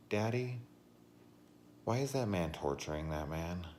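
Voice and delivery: imitating little girl. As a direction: play the small girl asking her dad. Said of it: "being like".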